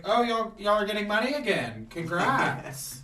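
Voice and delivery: lightly voiced catty concubine; bitchy congratulations. Concubine being bitchy to Shen's maid, mock congratulations.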